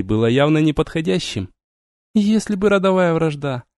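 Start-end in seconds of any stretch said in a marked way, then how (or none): 2.1-3.6 dreamy drawl. A narrator's reading. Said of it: "мечтательно протянула Вериена".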